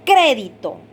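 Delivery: "Crédito" stressed clearly on opening "Cré"; golpe de voz. Shown as a demonstration. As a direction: show the stress on "Cré", dropping through "dito". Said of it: "¿dónde se escucha el golpe de voz?". ("Crédito" marcando la primera sílaba, "Cré")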